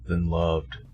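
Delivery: low, slow and brooding; brooding villain voice. Acted. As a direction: say it like a grim dark lord.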